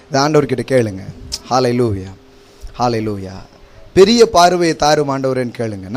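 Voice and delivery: ordinary talk, nothing marked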